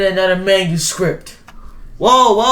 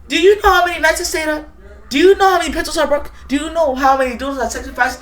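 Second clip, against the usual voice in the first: fast, higher, hammering questions; rapid-fire outraged complaint; indignant rant; 5 semitones higher, much faster than usual. Acted. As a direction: rattle off the grievances. Ranting at editor.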